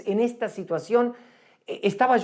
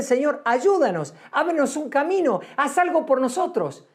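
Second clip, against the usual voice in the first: higher, pleading cry to God; voicing Moses crying out for help; pleading prayer; 6 semitones higher than usual. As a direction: beg God for a way out, pitch up. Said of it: "Para pedirle".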